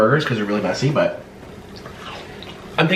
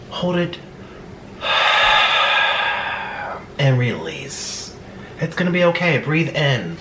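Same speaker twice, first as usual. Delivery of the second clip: guided breathing; 2 semitones lower than usual. Acted. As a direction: talk them calmly through each breath. Leads breathing exercise.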